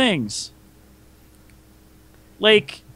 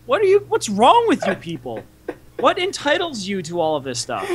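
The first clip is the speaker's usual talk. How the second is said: exasperated. Real, not acted. Exasperated rant at neighbors.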